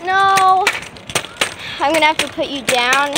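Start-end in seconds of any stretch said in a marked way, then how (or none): 0.0-0.7 startled cry. Real, not acted. Losing balance on scooter.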